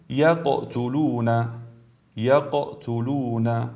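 slow recited یقتلون with echoed ق; brief qalqala. Shown as a demonstration. Tajweed teacher gives third word, bouncing the ق in یقتلون. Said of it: "حرکت بسیار مختصر".

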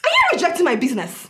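a hammed-up wounded wail; whiny offended cry. Customer whining that her business is being rejected.

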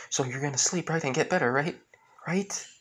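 anxious plea. Acted. Boy pleads with dying father.

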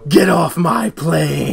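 slow, weighty order; slow movie line. Retold or imitated. Quoting Harrison Ford to his friend, slow and weighty. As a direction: lean on each word slowly. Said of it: "the Harrison Ford route".

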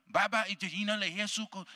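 imitating a Swahili prayer.

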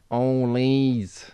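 Leeds accent. Shown as a demonstration. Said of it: "do you wanna hear my Leeds one".

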